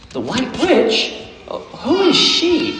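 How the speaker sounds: put-on very high, slow girl voice rising to a squeak; high wondering child's question; little girl. A narrator's reading. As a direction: ask like an awed child. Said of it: "said Lucy".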